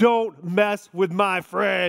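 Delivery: slow, puffed-up big-man voice. Retelling how Steve shoved a kid into the lockers, Steve's big man voice. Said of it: "it was like big man voice".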